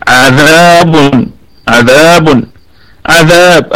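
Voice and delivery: slow عذاب, every letter thin and light; tajweed demo. Shown as a demonstration. Teacher models a thin عذاب for the class. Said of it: "الكلمة كلها مرققة".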